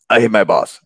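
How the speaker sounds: mock resentful grumble through gritted teeth; put-on grudging complaint. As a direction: act out a fed-up worker, teeth clenched. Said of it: "gritting your teeth, and saying".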